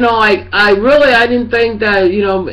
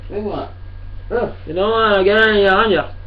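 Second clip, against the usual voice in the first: chewing tobacco. Real, not acted. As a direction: mouth full of tobacco. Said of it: "I gotta spit".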